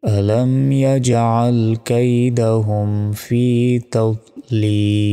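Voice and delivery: very slow melodic tajweed recitation; drawn-out verse chanting; Quran recitation. Shown as a demonstration. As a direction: chant it with long, held final vowel.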